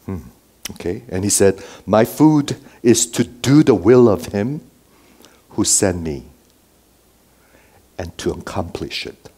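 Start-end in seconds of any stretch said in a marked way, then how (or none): 1.9-9.3 measured phrases with long pauses, softening at the end; slow and deliberate. Acted. Preacher quoting Jesus for the congregation, slowly and deliberately. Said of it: "I say this slowly".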